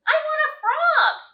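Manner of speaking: high, loud demand; a princess shouting that she wants a frog; insistent shout. Acted. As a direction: stamp your foot and insist.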